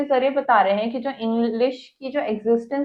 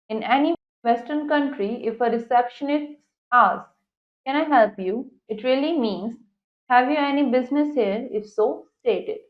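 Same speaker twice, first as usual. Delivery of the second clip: slow, careful English reading; textbook read-aloud; much slower than usual. Acted. Teacher reads the English passage to students, slow read-aloud. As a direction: read it out deliberately for a class.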